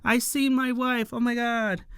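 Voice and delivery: very high falsetto fanboy squeal; starstruck squeal. Retold or imitated. Nerds on their knees seeing their idol, starstruck falsetto squeal. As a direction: squeal like a lovestruck fan.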